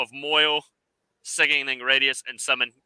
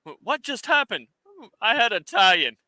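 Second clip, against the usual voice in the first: panicked enemy voice; 6 semitones higher than usual. Retold or imitated.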